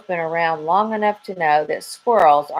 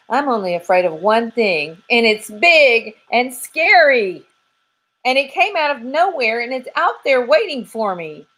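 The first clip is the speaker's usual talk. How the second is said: lightly higher squirrel voice, slowing on big and scary; a squirrel telling of his one fear; spooked squirrel; 6 semitones higher, 4 dB louder than usual. Acted. Squirrel confiding his fear to the detectives, lightly high.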